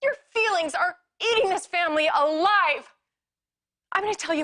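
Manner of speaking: high, loud and fast, cutting him off; angry shout. Acted. Wife cutting off her husband's apology, angry shout. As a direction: tear into him.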